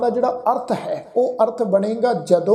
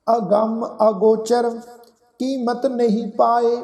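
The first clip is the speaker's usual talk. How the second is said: slow, measured verse reading with held vowels; scripture recitation; 2 semitones higher, slower than usual. Shown as a demonstration. Teacher reciting a Gurbani line to the congregation, slow recitation. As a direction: recite it slowly, phrase by phrase. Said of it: "ਸ਼ਬਦਾਂ ਦਾ ਉਚਾਰਨ ਕਰਦੇ ਹਾਂ".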